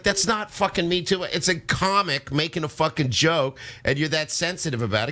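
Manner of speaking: angry wife. Retold or imitated. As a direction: play the wife shouting at the comic. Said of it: "My wife's like".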